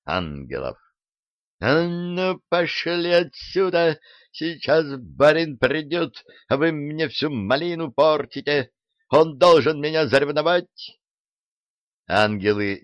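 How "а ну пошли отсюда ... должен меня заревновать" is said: put-on a servant girl chasing intruders off with a mop; furious yell. Dunyashka yelling at the angels, furious and high. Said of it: "Разъярённая фурия со шваброй".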